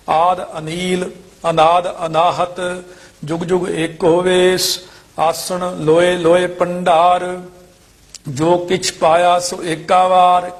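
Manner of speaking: level, drawn-out chant-like reading; measured scripture recitation. Shown as a demonstration. Teacher reciting verses for students, measured chant-like recitation. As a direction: recite each phrase evenly with pauses.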